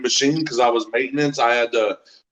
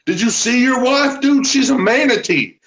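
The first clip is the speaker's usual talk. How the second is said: much higher, taunting buddy voice; mock teasing; 9 semitones higher than usual. Teasing Daryl about his wife, much higher and mocking. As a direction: rib him in a put-on voice.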